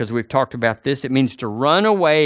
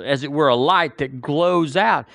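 ordinary talk

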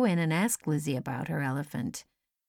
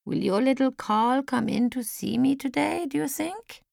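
anxious; 6 semitones higher than usual. A narrator's reading. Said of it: "she asked again. She seemed anxious".

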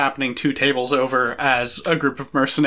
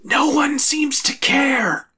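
high, slow chirpy bird voice; perky little bird creature, hushed; chirping bird person; 10 semitones higher, slower than usual. Acted. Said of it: "Shimshackle is going".

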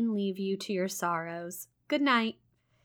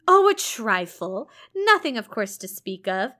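a lightly voiced teasing clergyman; 7 dB louder than usual. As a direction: toss it off as if it were nothing. St John teasing voice.

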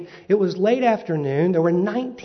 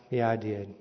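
softer, lower guilty admission; sheepish confession; 7 semitones lower, 8 dB quieter than usual. Retold or imitated. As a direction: own up quietly and guiltily. Confessing to the Amish man.

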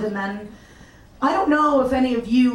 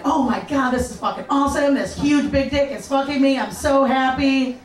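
giddy excitement; 5 semitones higher than usual. Retold or imitated. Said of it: "And I'm like".

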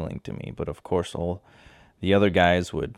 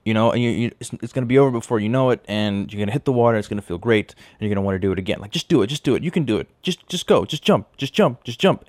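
louder, higher, building to an insistent just jump; pushy encouragement; 3 semitones higher, 4 dB louder than usual. Retold or imitated. Guy urging the scared girl off the cliff, loud and pushy. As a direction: egg her on harder and harder. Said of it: "He's like".

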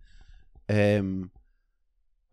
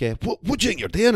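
much higher, indignant put-on voice; squeaky mock outrage; mock angry officer; 11 semitones higher, 3 dB louder than usual. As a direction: play the officer catching him out, outraged.

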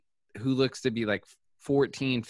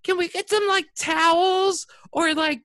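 much higher and louder, a hammed-up flustered woman asking for towels; mocking a woman; 5 dB louder than usual. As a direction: ask for towels in a high, panicky put-on voice. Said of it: "then she's like".

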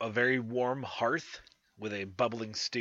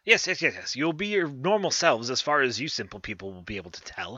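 witch dismissive; 2 semitones higher, 5 dB louder, faster than usual. Acted.

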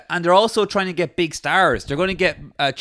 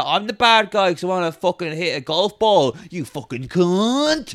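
riled up; 2 semitones higher than usual. Retold or imitated. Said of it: "I got real, mm, riled up there".

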